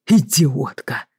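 a slow, hoarse, held-back yell of idiot; mild hoarse outburst; hoarse quiet shout. A narrator's reading. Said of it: "прокричал тихим, сиплым голосом".

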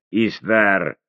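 пьяно выкрикивает «Истар!», тянет и роняет вниз; «Истар!» заплетающимся языком, с падением в конце; пьяный окрик. Acted. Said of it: "Он пьяно засмеялся и икнул". (пьяный зовёт служанку, пьяно)

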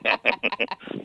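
small, soft chuckle; laughing. Real, not acted. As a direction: chuckle briefly at your own joke. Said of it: "me río un poco". (risita suave)

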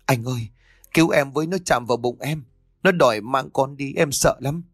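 anxious, whimpering appeal; frightened pleading. Acted. Scared wife to husband, frightened plea for help. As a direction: beg for protection, pitch lifting.

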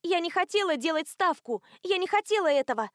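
high, loud protest, speeding up; panicked shouting. A narrator's reading. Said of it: "закричала она".

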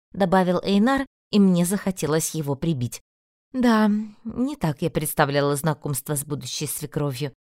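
plain reading voice

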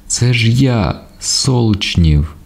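high, urgent self-announcement; crying out. A narrator's reading. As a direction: call it out high, phrase by phrase. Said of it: "кричав зовсім інший голос".

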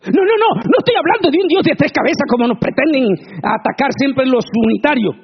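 high, loud, insistent denial; fiery preaching. Acted. Preacher rebutting the unitarians with fiery preaching. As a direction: wave off the accusation with force.

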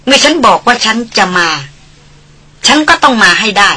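lightly voiced resolute young lady; firm lady. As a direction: refuse him firmly. Darin firm refusal. (ดารินปฏิเสธอย่างเด็ดเดี่ยว)

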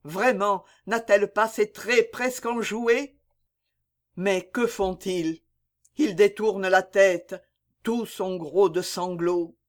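plainte douloureuse, légèrement plus aiguë; complainte. Acted. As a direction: pleure sa bien-aimée sans sanglot audible. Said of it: "commencèrent les complaintes". (Vincent se lamente sur Mireille morte, plainte retenue)

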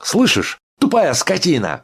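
high, loud insult; patient screams insults at the guard; furious shout. A narrator's reading. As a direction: yell it through the door. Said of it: "крикнул Иван Дмитрич".

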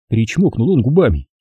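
ordinary delivery

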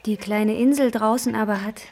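slow, hushed reading of verse; poem recitation. Acted. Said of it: "Das ist Rilke".

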